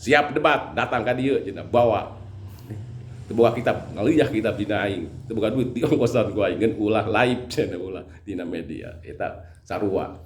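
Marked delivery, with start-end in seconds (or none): 0.0-9.0 higher, louder swaggering challenger; mocking loud boast. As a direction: ham up a blustering braggart. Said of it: "yang dari Rangkas".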